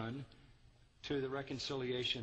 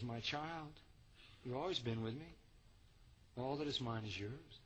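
softer, gentle fatherly reply; tender father; 5 dB quieter than usual. Acted. Father gently answering his resentful son, tender. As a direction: soothe the angry son. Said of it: "The tenderness in that".

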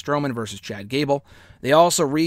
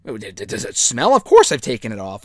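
stammering, hammed-up offence; mock shock; 3 semitones lower, 3 dB louder than usual. Sami pretending shock at a smelly shirt, stammering. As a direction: sputter like you're caught out. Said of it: "Sami acts all, like, shocked".

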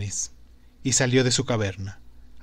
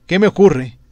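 astonished; 4 semitones higher, 7 dB louder than usual. Acted. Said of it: "pensó Zaratustra en su asombrado corazón".

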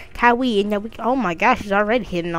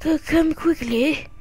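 high mom voice; 9 semitones higher than usual. Acted. Mom calling Kyrie to the TV, high and eager. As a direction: call him over like an eager mother. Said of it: "changing voices".

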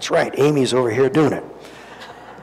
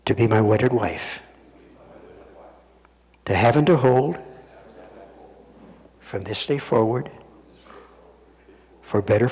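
saying wedding vows; 2 semitones lower than usual. Shown as a demonstration. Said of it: "Repeat after me".

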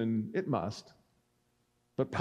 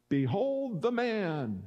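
slow, higher-pitched proclamation; 5 semitones higher, slower than usual. A narrator's reading. Pilate presenting Jesus to the crowd, slow proclamation. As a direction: present him with drawn-out words.

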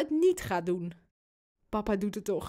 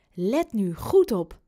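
slow, with GOED punched louder; insistent; 5 dB louder, slower than usual. A narrator's reading. Boy urging his cuddly pig to watch, slow and insistent. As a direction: draw it out and hit "goed".

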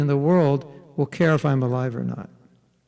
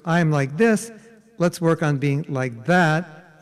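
constructive self-acceptance; slower than usual. Shown as a demonstration. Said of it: "As opposed to".

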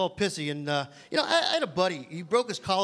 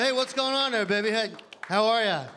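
pushy pickup guy; 3 semitones higher than usual. Retold or imitated. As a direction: play a sleazy guy at a club who snaps into a yell. Guy hitting on women.

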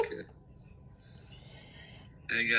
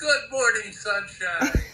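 cheery greeting; 5 semitones higher, slower than usual. Real, not acted. Dad's signature greeting.

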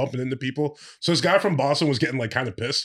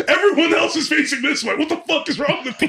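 incredulous mock scolding; 11 semitones higher than usual. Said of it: "I was like".

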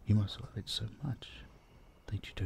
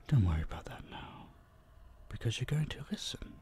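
whisper; 3 semitones higher, 4 dB quieter than usual. Acted. Coaxing captive to obey.

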